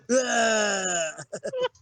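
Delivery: long drawn-out mock groan; aroused groan. Imitating Billy relishing the shootout, aroused groan. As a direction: groan as if getting off on it. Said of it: "Just gets his dick hard".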